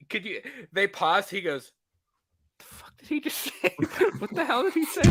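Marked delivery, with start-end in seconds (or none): 2.6-5.0 mock whisper, breaking into laughter; whispered disbelief, played for laughs; baffled director aside. Director puzzled by actor's growl, mock whisper. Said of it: "Chris Nolan is like".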